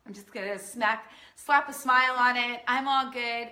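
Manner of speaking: a hint of a woman hiding her feelings; forced fine. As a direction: paste on a cheerful smile and insist you're fine. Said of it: "as so many women are taught to do".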